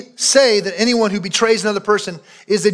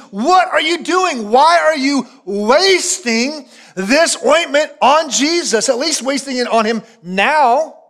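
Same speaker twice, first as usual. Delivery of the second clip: a slow, higher mock of the disciples' outrage; indignant disciples; 4 semitones higher, slower than usual. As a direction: scoff at her as the indignant disciples. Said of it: "They go after her in their indignation".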